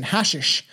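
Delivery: "Hashish" with stress up front, HASH-ish; mispronounced hashish. Shown as a demonstration. Reader guessing how the old texts said it, anglicized HASH-ish. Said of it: "is how they said it".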